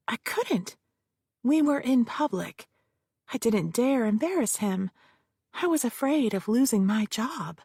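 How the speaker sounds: hint of a defensive witness; witness Josephine. Witness answers the lawyer, lightly voiced and nervous.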